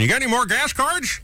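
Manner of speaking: lightly voiced eager listener; mimicking a caller. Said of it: "some people are calling going".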